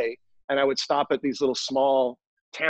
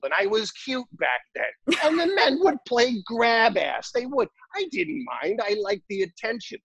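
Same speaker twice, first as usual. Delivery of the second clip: put-on raised, lightly Brooklyn old woman telling her tale; old Brooklyn lady; 3 semitones higher than usual. Old accountant telling him about John Wayne, in a cheeky raised old-lady voice. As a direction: lean into the cheeky old lady's memories, laughing. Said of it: "thick Brooklyn accent".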